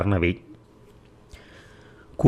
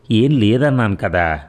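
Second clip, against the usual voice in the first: a touch of annoyance, a little raised; mock-annoyed daughter; mildly irritated; 3 semitones higher, 4 dB louder than usual. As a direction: brush off mom's worry with a mild huff. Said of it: "విసుక్కుంటూ".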